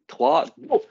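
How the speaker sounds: high, loud go to start the game; excited go. Real, not acted. (trois, go ! lancé fort et aigu)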